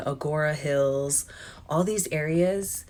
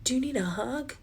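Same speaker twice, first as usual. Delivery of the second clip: kind lady; 7 semitones higher, 6 dB quieter, faster than usual. Retold or imitated. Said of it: "she goes".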